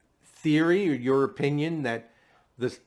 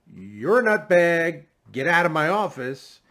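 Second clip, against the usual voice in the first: imitating an irate brush-off, higher and louder; mock dismissal; 4 semitones higher, 5 dB louder than usual. Host imagines investigator rejecting the theory, mock dismissal.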